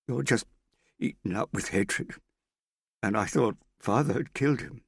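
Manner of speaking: high, loud accusing; tearful accusation. Acted. Hester accusing the Australian of hatred, high and loud. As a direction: let the upset burst out.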